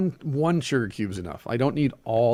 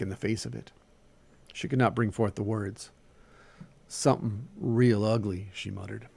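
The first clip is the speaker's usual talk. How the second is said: animated story reading with Southern dialogue; story narration. A narrator's reading. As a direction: read the tale aloud, giving each figure life. Reads a short story aloud.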